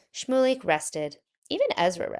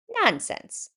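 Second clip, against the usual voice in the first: laughing; 14 semitones higher than usual. Acted. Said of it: "laughed the mayor".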